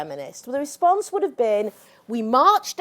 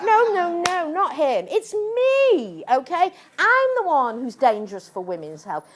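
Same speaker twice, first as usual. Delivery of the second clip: high, loud sarcastic protest; mock indignation; 4 semitones higher, 5 dB louder than usual. To the audience, mocking critics, sarcastic high protest. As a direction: scoff at the idea she is the danger. Mocking the accusation against her.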